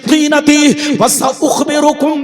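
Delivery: sonorous preacher's chant, rising in the middle; hadith recitation. Real, not acted. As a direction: recite sacred text, stretching the phrase endings.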